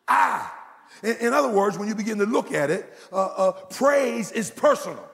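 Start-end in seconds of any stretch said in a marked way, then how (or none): 0.1-0.5 "I" punched loud on its own; forceful one-word stress on "I"; emphatic I. Shown as a demonstration. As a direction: hit "I" hard, then stop. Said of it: "Did you hear my emphasis".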